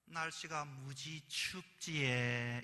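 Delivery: slow, drawn-out Gyeongsang hint; Gyeongsang woman. Retold or imitated. Preacher voicing the Gyeongsang woman hinting to her date, slow. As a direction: stretch the words out with a pointed Gyeongsang lilt. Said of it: "이 경상도 여자가".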